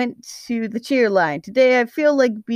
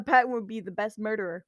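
ordinary delivery, nothing marked

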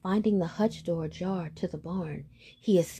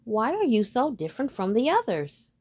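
Mother Duck; 4 semitones higher, 3 dB louder than usual. Acted. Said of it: "she would say".

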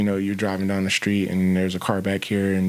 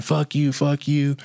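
mild mock yell, slightly higher; retold yelling; 4 semitones higher, slower than usual. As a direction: lightly imitate a man yelling curses.

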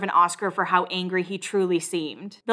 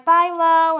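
high-pitched imitation of a farewell; retold girly goodbye; 8 semitones higher, 4 dB louder than usual.

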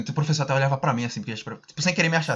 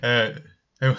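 short imitated awkward laugh; stall, then let out a little laugh. Retelling being lost for words with the girl, awkwardly laughing. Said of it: "Aí eu fiquei rindo assim".

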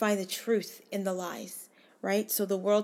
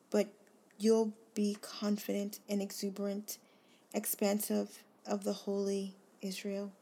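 devotional scripture reading. Acted. A reader voicing God's promise to a friend, earnest reading. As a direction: read the promise aloud as if speaking it to one person. Reads scripture aloud to listener.

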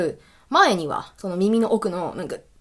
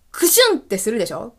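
light sneeze sound; faster than usual. Shown as a demonstration. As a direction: say "クシュン" lightly and quickly, like a small sneeze. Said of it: "クシュンってすると".

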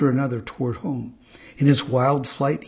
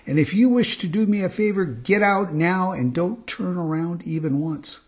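quick, higher bossy puppet voice; rude puppet boy; 5 semitones higher than usual. Acted. Pinocchio ordering the cricket out, quick and bossy. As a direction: rush the order out impudently.

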